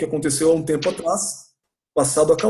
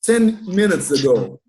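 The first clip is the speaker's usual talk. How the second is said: pronunciation model; slower than usual. Shown as a demonstration.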